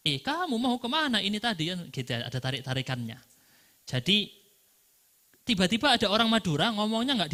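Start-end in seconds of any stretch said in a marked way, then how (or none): 0.1-1.7 lightly imitated Madurese drawl, words drawn out; a playful hint of Madurese stretched speech. Madurese teacher joking about his own accent, mild drawl. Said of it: "Kalau orang Madura ngomongnya ditarik-tarik".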